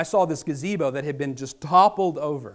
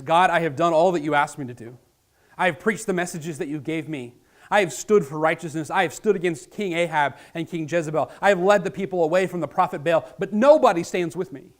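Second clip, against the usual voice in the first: louder, pleading protest; Elijah's complaint; 2 semitones higher, 7 dB louder than usual. Acted. Elijah protesting to God that he stands alone, loud. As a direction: pour out the grievance.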